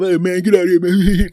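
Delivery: high, loud, laughing brush-off; imitated laughing banter. Friends laughing after a teasing joke, mock laughing protest. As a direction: retell a buddy cracking up and waving it off. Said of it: "we're laughing and stuff".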